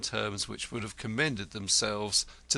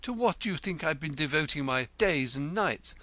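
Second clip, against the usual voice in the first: high, florid self-important poet; 1 grandiloquent poet; 9 semitones higher than usual. A narrator's reading. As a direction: hold forth grandly about yourself. Poet voice held.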